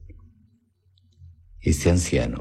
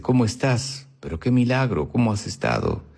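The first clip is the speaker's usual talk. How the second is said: empieza agudo y cae al final; saludo animado; 6 semitones higher than usual. Acted. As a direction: saluda a un amigo con grata sorpresa. Saludo al encontrarse con un amigo. (saludo efusivo, de tono alto que desciende)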